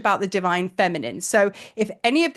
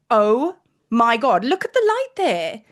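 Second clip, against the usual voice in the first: awed; slower than usual. Retold or imitated. Awed at light in sky.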